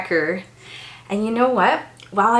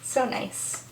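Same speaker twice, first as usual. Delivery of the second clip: breathy whisper of delight; hushed little aside; 11 dB quieter than usual. Real, not acted. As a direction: whisper it to yourself. Soft aside while reading.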